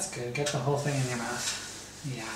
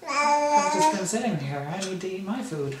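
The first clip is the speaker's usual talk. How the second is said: mock whine; 3 semitones higher, 4 dB louder than usual. Dad to baby, wanting his own lunch, mock whine. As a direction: play the hungry, hard-done-by daddy.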